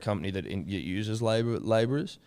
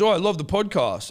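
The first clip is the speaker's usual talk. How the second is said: imitating a gushing fan, higher and louder; 10 semitones higher, 5 dB louder than usual. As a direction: gush like a starstruck listener. Caller gushes about the podcast.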